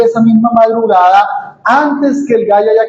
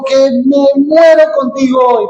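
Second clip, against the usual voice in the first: raised voice; 6 semitones higher than usual. Retold or imitated. Pedro vowing loyalty to the Lord, a boastful shout. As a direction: puff up and shout the vow. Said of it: "tal vez levantó el tono".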